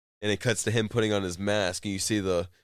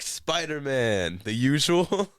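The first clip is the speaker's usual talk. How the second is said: high, slow mock clerk greeting; pizza clerk voice; 6 semitones higher, 3 dB louder, slower than usual. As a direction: ham up the pizza guy.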